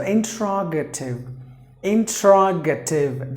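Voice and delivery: interrogative as five even syllables, stress on RO; teacher modelling interrogative; model pronunciation. Shown as a demonstration. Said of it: "That's how you have to pronounce".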